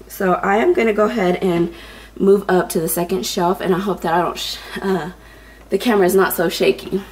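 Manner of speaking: slightly winded talking; short of breath while speaking. Real, not acted. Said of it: "if I'm out of breath, I sound out of breath".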